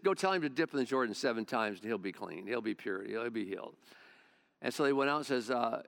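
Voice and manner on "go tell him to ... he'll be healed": laid-back prophet. Retold or imitated. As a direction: toss it off like a kickback guy. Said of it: "They're real kickback guys".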